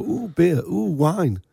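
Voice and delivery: lightly mocking, scandalised oohs; mock childish awe. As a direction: imitate prudes tittering over something naughty.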